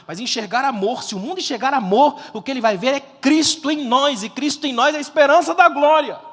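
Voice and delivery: full-voiced preacher driving the point home; preaching crescendo. Real, not acted. Preaches to a climax. (pregação num crescendo, em voz forte)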